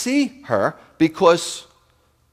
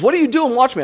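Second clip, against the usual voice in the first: imitating neighbor's indignant question; 10 semitones higher, faster than usual. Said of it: "She goes, she says".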